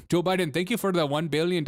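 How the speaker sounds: badly faked African accent; terrible African accent. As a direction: attempt a clumsy mock African accent. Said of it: "that's the worst African accent".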